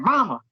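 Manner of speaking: "Mama" with a drawn-out Southern twang on both syllables; overdone Mama. Retold or imitated. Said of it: "you're over saying".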